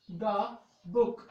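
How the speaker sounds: "द बुक" drawn out slowly; slow teacher demo. Shown as a demonstration. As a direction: stretch "द बुक" out for learners. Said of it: "द, sorry". ("द बुक" बहुत धीरे बोलें)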